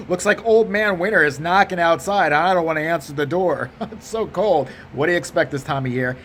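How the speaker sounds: lightly put-on white guy small talk; chummy white-guy chit-chat with a chuckle. Shown as a demonstration. Comic making weather small talk with the teller, white guy voice. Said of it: "they always play along with that voice".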